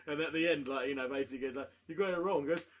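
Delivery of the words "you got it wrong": mock taunt. Host taunts contestant.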